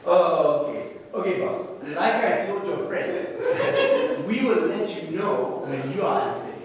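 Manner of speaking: mock-indulgent brush-off; lightly acted patronizing dismissal; condescending. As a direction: imitate someone talking down to a worried customer. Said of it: "very condescendingly".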